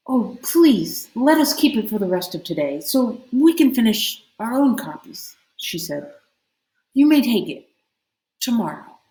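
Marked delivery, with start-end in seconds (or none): 0.1-5.4 lightly raised pleading voice; pleading princess. Acted. 6.9-9.0 lightly higher, gracious voice; princess granting. Acted. Sea princess to son.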